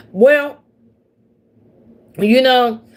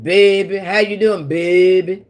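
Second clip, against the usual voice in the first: Southern drawl. Retold or imitated. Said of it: "Like the people in New Orleans".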